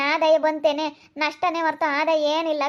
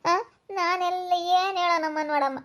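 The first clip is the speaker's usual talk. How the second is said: tearful wail; 3 semitones higher than usual. Acted. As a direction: wail it as if about to cry. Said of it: "ಬಿಡು, ಅಳ್ಬೇಡ, ಯಾಕ್ ಅಳ್ತೀಯ?". (ಅಳುತ್ತಾ ಗೋಳಿಡುವ ದನಿ)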